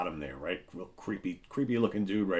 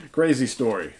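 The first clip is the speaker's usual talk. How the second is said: louder, higher declaration; loud exclamation; 5 semitones higher, 8 dB louder than usual. Shown as a demonstration. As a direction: proclaim it to the viewers. Whispered then repeated aloud.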